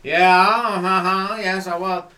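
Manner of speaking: very slow, loud mock Southern drawl; Southern racist drawl. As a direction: caricature a Southern racist, stretching the vowels. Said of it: "I just hear that tone of voice".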